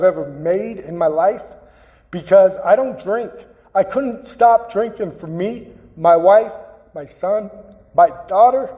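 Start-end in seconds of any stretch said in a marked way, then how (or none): 6.0-8.7 real emotion held in check; holding back tears. Real, not acted. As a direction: voice tight and higher, fighting tears. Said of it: "I'm not about to cry".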